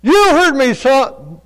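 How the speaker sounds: a mother telling her son she heard him; imitating mom.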